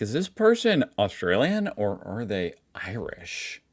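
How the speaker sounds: slow, drawn-out puzzled question; mock puzzlement, taken slowly; puzzled musing. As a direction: wonder it aloud, stretching it out. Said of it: "Sometimes I'm like".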